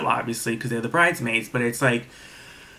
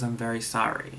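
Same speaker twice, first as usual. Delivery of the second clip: softer, a touch of tears in it; quiet, understated teary sorry; retold tearful apology; 6 dB quieter than usual. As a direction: mildly imitate a crying apology. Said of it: "She starts crying and she goes".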